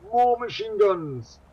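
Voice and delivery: high, loud, drawn-out battle cry; gleeful, hammed-up yell; mock-excited shout. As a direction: bellow it like a brilliant brainwave. Mock announcing the Aussies' brilliant idea.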